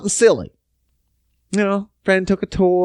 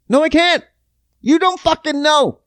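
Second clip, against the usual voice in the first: exasperated retort; 11 semitones higher than usual. Real, not acted. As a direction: fire back, fed up. Angry retort to customers.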